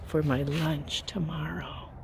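hushed half-whisper. Real, not acted. Musing to viewers about tomorrow's lunch, whispering. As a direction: let it sink into a whisper. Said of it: "I don't know why I'm whispering".

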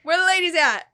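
high and loud, playful; voicing the excited hippo. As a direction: ham up a randy hippo. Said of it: "It's like".

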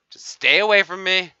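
hammed-up shouted keep-away; loud warning. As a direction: yell it to keep them back. Warning players to back off.

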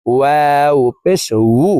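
"ওয়াও পেশ উ" with rounded lips, final "wu" not a bare u; rounded-lip wāw. Shown as a demonstration. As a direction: round the lips with a gap for "উ", gliding from w. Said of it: "ঠোঁট গোল করে দুই ঠোঁটের মাঝে ফাঁকা রেখে".

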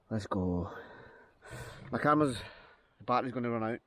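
panting after lifting rocks; breathless from hauling stones; out of breath. Real, not acted. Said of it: "Sorry, I'm out of breath".

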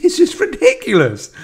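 very high, loud squeal; amused disbelief. Retold or imitated. Fan recalling a favourite comedy sketch, high amused squeal.

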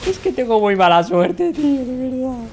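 complaint. Real, not acted. Complains about bad luck in game.

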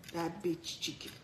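quoting "That bitch chicken" softly; hushed mocking quote of the typo.

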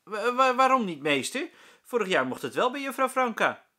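put-on high, loud stuttering kid's protest; stammering child. A narrator's reading. Rolf protests to the teacher, high stammering child voice. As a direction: stumble out an indignant question.

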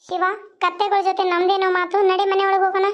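high put-on girl's voice, fretting; a frightened village belle complaining about the loafer. Heroine's put-on voice.

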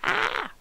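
short high-pitched imitated shriek; mock freak-out scream. Player imagines the burglar freaking out, mock shriek. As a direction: squeal as if freaking out. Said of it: "freak out and be like".

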